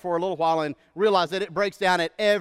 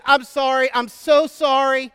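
high, loud, slow apology through laughter; embarrassed registrar laughing out her apology; 6 semitones higher, 8 dB louder than usual. Retold or imitated. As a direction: apologise while laughing helplessly. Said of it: "she said".

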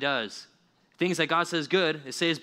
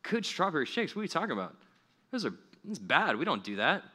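mock staff scorn; 3 semitones higher than usual. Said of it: "And they're like".

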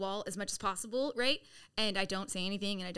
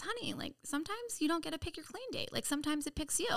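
gentle sponsor; 6 semitones higher, 4 dB quieter than usual. Retold or imitated. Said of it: "she says".

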